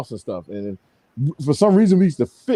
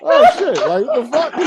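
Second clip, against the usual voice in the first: high, louder laughing surprise; laughing shock; 10 semitones higher, 5 dB louder, slower than usual. Retold or imitated. Boy surprised by his body, laughing high. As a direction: laugh through the startled outburst. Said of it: "I'm like".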